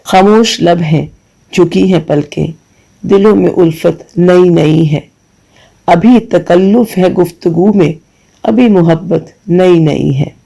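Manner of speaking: slow, tender verse reading; poem recitation. Acted. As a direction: savour each line of the ghazal.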